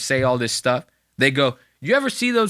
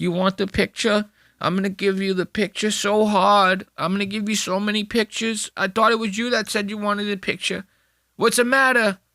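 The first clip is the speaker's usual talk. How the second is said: zombie-like voice, a little pitched up; 7 semitones higher than usual. Retelling a man cornering strangers to offer a picture: imitating Andrew like a zombie. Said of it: "like a zombie".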